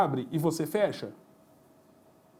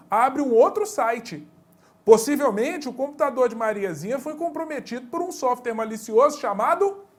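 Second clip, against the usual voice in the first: enunciado de prova lido em voz mais alta e enfática; leitura de questão de prova; 3 semitones higher, 4 dB louder than usual. Shown as a demonstration. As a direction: leia como a banca escreve a questão. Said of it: "Vai falar assim". (professor lê a questão de concurso em tom de prova)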